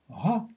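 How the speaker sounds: ГА with a breathy voiced h; звук «га». Shown as a demonstration. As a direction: say ГА as Latin ha, not hard g. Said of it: "звук га, скажем". («га» с придыхательным «г»)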